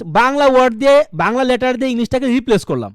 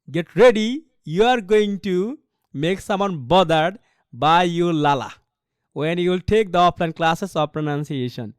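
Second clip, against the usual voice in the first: teasing warning; 3 semitones lower, much slower than usual. Acted. Teasing students.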